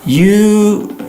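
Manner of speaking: drawn-out high suspicious hmm; a mock-offended hum at being ghosted; pointed hmm. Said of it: "you're kind of like".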